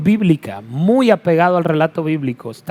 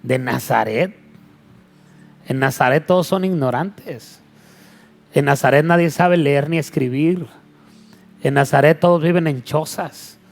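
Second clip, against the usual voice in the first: mild mocking disbelief, opening on a lower rising question; burla de Natanael; 2 semitones lower than usual. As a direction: scoff lightly, as if imitating a sceptic. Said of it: "se empieza a burlar Natanael". (burla incrédula, imitada con ligereza)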